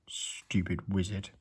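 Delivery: whispered, slow grumble; Mister Mean grumbling about the wizard; muttered. A narrator's reading. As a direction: mutter it under your breath. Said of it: "muttered Mister Mean".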